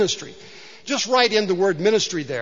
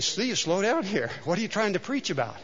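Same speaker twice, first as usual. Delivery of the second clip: slowing oneself down; 6 dB quieter than usual. Retold or imitated. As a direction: gently rein yourself in. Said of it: "and I need to say".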